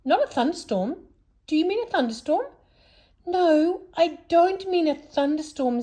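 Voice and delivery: put-on high, puzzled old peddler voice; a high, fussy, befuddled old man; Saucepan Man voice.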